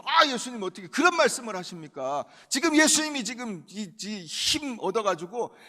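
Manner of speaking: Peter scolding Jesus, loud and heated; angry rebuke. Acted. Peter rebukes Jesus for foretelling death, heated loud rebuke. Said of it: "막 화를 내는 거예요".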